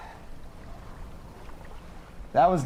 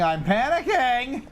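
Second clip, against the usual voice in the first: mock panic; 10 semitones higher than usual.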